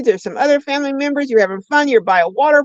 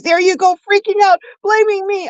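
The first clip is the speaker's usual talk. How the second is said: imitating the daughter, higher and accusing; a daughter snapping back at mom, higher mocking voice; 9 semitones higher than usual. Daughter accusing mom of freaking out, mock high voice. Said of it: "She goes".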